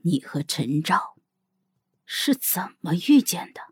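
hushed, slow question sinking towards a whisper; low and slow. Acted. Xiao girl drawing close to the princess, low and slow. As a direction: ask softly, lingering on the words. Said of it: "低声的、".

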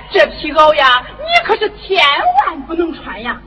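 half-sobbed stage cry; crying protest. Acted. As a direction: wail it out to stop him. Wife protests father taking coat.

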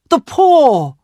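loud, high-pitched outburst; sudden cry. A narrator's reading. Wife cries out to sleeping husband, sudden high cry. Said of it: "she cried".

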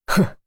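short scornful "hmph"; cold sneering snort. A narrator's reading. Director dismisses the prisoner's threat, cold snort. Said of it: "赵处长一声冷笑".

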